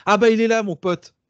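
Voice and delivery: high, loud delighted hail to a friend; excited greeting. Real, not acted. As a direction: call out as your pal turns up. Spots his friend arriving, greets him. (accueil enthousiaste, voix haute et forte)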